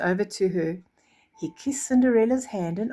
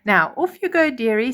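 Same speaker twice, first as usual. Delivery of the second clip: put-on kindly old fairy, pitched higher and louder; higher, louder godmother bidding farewell; 4 semitones higher, 5 dB louder than usual. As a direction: send her off like a fussing fairy godmother. Fairy godmother sends Cinderella off.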